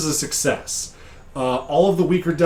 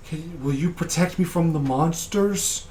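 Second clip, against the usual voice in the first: put-on kid's voice; 4 semitones higher than usual. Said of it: "I can't do a very good kid's voice".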